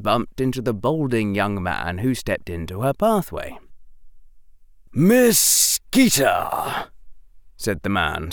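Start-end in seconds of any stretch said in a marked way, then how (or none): 4.9-6.9 very slow, cold, measured greeting; severe and cold. A narrator's reading. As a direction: stop her with icy calm. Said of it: "sounding rather severe and cold".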